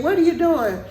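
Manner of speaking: high-pitched, insistent question; imitated yelling officer. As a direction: mimic an officer's mild yell. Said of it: "he asked me again".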